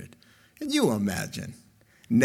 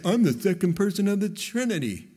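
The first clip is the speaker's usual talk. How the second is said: mock bare announcement; 4 semitones higher, faster than usual. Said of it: "He didn't just come down and say".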